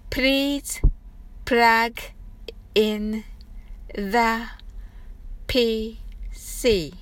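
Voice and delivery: slow, each word apart with strong P; slow practice read. Shown as a demonstration. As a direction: say it slowly, popping each P. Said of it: "はじめはゆっくりです". (一語ずつゆっくり、Pを強く破裂させて)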